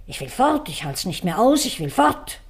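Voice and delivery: a high, mock-desperate cry on fort; retold cry. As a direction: imitate the wife crying out to leave. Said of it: "und schrie". (nachgeahmter verzweifelter Aufschrei)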